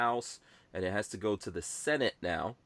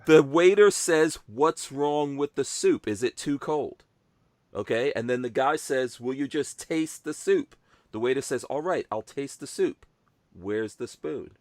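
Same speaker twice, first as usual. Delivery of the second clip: slow explanation; 3 semitones higher, 4 dB louder than usual. Shown as a demonstration. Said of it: "This, this is a joke".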